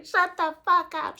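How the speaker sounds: high, loud imitation of a fed-up friend; retold exasperated command. Second-mom friend silencing her wailing, exasperated command. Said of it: "She actually told me to shut the F up".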